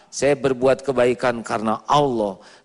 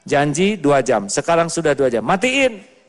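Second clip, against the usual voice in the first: firm calm mother. Shown as a demonstration. Preacher showing how a mother should firmly tell her child. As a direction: lay down the rule gently but firmly. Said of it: "Cukup aja".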